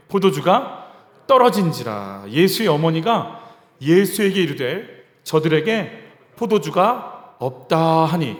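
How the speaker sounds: slow, measured scripture recital; scripture reading. Shown as a demonstration. 성경 구절 낭독. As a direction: read the verse slowly and solemnly. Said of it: "삼 절 다시 한번 받을게요".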